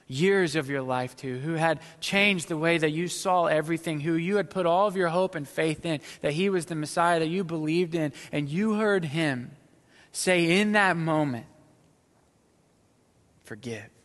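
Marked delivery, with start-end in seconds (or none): 1.4-11.5 louder and higher, building; rising preaching. Real, not acted. Pastor imagining the disciples' hope, building louder. 13.4-13.9 soft, dropped low and quiet; hushed forgive. Acted. Jesus' word heard by followers, hushed.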